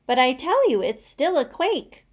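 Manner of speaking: high, loud, insistent duck voice; quacking duck. A narrator's reading. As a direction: quack out the warning. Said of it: "quacked the duck".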